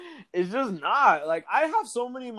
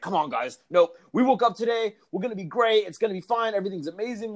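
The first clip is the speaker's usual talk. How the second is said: higher, forced-cheerful mock pep talk; mock toxic positivity; 6 semitones higher, faster than usual. Mocking relentlessly upbeat people, higher mock cheer. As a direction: chirp it like a fake cheerleader. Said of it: "extreme positivity".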